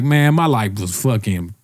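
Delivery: put-on drawling dude voice; storytelling dude impression. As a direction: play a hyped-up guy telling his story. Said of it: "there's always a dude who's like".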